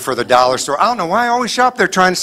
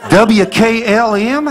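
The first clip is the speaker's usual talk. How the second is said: slow, higher, unsure letter reading; reading the eye chart; 6 semitones higher, 3 dB louder, much slower than usual. Retold or imitated. Patient guessing the chart letters slowly. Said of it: "you remember read that one".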